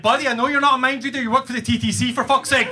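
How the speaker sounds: high, fast mock outburst; exasperated retort. Rider snapping back at the subway clerk, mock exasperation.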